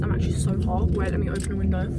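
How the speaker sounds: talking while chewing; mouth full. Real, not acted. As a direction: speak round a mouthful of food. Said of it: "Sorry that I'm eating with my mouth full".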